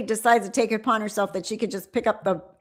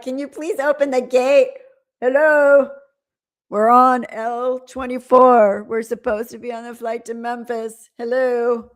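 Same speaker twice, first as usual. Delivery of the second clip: a light mock of her pleading on the airport mic, slightly louder; imitating a stranded traveller; 4 dB louder than usual. Imitating the woman on the airport microphone, a touch pleading. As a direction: call out to the gate staff as she did. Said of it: "and she's like".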